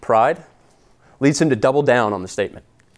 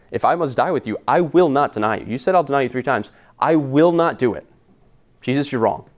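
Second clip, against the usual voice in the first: raised, insistent vow with firm stresses; Peter, emphatic; 4 semitones higher, 3 dB louder than usual. Retold or imitated. Peter insisting to Jesus he will never deny him, emphatic. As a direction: quote the vow emphatically, leaning on each refusal. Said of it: "He says emphatically".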